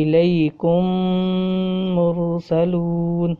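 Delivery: الیکم مرسلون with the two meems merged and held nasal; drawn-out Quranic recitation, مرسلون slowed right down; nasalized merged meem. Shown as a demonstration. Teacher demonstrates idgham with ghunna, slow recited. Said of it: "غنہ ہو رہا ہے".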